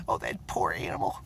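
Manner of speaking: lightly voiced wife, pitying; imitating wife. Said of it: "That's how my wife talks".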